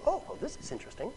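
soft, innocent questioning; polite curiosity. Acted. Woman asking about the stranger's water, softly curious. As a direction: ask softly, as if truly interested. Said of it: "she's not curious. She's not saying".

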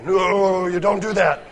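loud, drawn-out no; emphatic disapproval. Real, not acted. Preacher warning congregation of a crossed line, emphatic disapproval. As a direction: raise the voice in flat-out disapproval. Congregation reacts to improper ride.

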